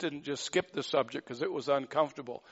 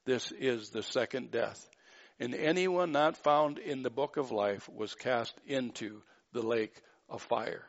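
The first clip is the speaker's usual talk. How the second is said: scripture reading. Acted. Reads scripture aloud.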